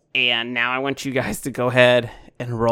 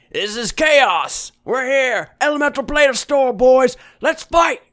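much higher, louder gleeful fish-creature yell; excited Sahuagin; 13 semitones higher, 8 dB louder than usual. Acted. Sahuagin in the bar cheers the fight, much higher, louder excited yell. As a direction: whoop for the brawl like a thrilled sea creature. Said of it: "a Sahuagin back there is like, says".

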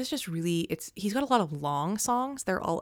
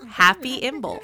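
loud, high festive cheer; excited greeting; 6 semitones higher, 9 dB louder than usual. Real, not acted. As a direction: call it out happily.

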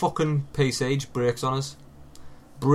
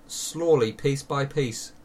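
slow menacing; 3 semitones higher, much slower than usual. Pretend. Threatening to tear down argument.

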